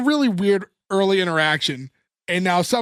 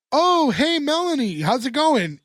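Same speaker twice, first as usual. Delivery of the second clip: high-pitched, put-on hello; sing-song mock hello, easing down at the end; mock friendly greeting; 7 semitones higher than usual. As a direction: imitate an overly chirpy greeting. Acts out friend's prank greeting.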